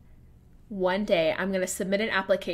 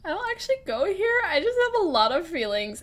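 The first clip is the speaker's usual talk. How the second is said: high, fast, lightly imitated gushing girl; Mean Girls quote; 9 semitones higher than usual. Comparing herself to the Mean Girls character, lightly voiced and high. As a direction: quote the movie line with a quick high lilt. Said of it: "that girl in Mean Girls who's like".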